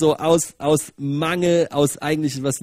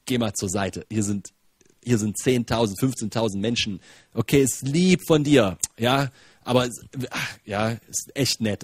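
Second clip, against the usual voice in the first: put-on low, dismissive aside to a child; humouring him, then doubting him; polite brush-off; 4 semitones lower than usual. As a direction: gently wave the boy away. Acting out dismissal of the boy.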